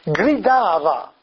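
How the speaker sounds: very slow, spaced-out scripture quotation; lettura scandita. Shown as a demonstration. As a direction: spell out the Greek rendering slowly. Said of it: "il testo greco è piuttosto così". (lettura lentissima e solenne)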